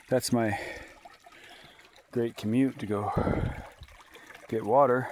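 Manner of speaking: breathless from splitting wood; out of breath. Real, not acted. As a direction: talk while catching breath. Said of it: "I am still out of breath".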